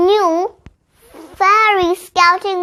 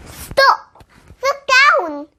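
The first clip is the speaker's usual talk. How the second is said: sharp, much higher call to halt; urgent cry; 7 semitones higher, slower than usual. A narrator's reading. Clara halting her friends in the yard, a high urgent cry. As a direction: stop them all, then point down. Clara spots the camping gear.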